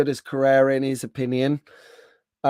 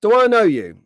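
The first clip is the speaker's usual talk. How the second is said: higher-pitched imitation of a curious woman; retold woman's question; 8 semitones higher, 4 dB louder than usual. Woman at the stand to vendor, retold higher-pitched question. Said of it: "She goes".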